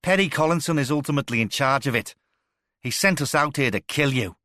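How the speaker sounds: loud, high pained shout; desperate shout. A narrator's reading. Tortured captive shouts out who hired him, loud and desperate. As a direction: blurt the name out in agony.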